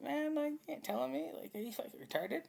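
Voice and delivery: high, loud incredulous retort; retold angry retort. Retelling his hospital argument, loud incredulous retort. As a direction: throw it back at him, loud and high.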